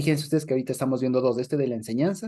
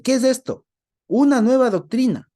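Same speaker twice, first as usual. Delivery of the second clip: ¿Qué es esto? cried out high and louder, a falling exclamation; 9 semitones higher, 7 dB louder than usual. Shown as a demonstration. Teacher reads the crowd's words as a loud amazed exclamation. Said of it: "cámbienle las preguntas por signos de exclamación".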